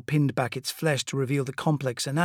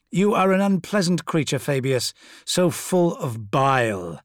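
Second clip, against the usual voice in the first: sneering tyrant voice; 3 semitones higher, 5 dB louder than usual. Acted. Fulgrim sneers at Fabius.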